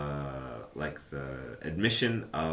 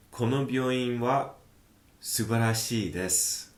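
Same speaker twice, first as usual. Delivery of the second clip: acted manga line; 5 semitones higher than usual. Reading a character's manga line.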